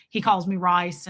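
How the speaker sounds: put-on "rice" in a father's Tennessee accent; Tennessee pronunciation. Repeating what a father calls his child, "rice" in Tennessee accent. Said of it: "my father is from Tennessee".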